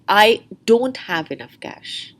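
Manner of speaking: "don't" given the weight, slow; stress on don't. Shown as a demonstration. Teacher contrasting stress for students, slowly weighting "don't". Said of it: "the stress could be on don't".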